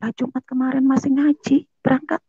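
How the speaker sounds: high-pitched baffled reaction; bingung keheranan. Retold or imitated. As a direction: puzzle it out in high-voiced disbelief. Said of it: "Dia bingung dong". (suara tinggi penuh keheranan)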